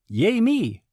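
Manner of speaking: high, loud self-congratulation; hammed-up little celebration; mock cheer. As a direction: cheer for yourself in a high squeal. Mock self-congratulation after job.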